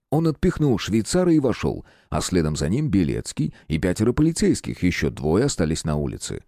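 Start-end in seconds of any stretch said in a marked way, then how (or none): none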